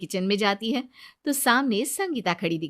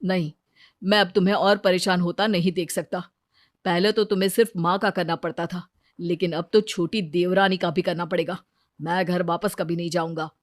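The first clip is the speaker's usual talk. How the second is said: lower, steady refusal; firm son; 3 semitones lower, faster than usual. Acted. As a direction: son refusing to go home for his wife's sake.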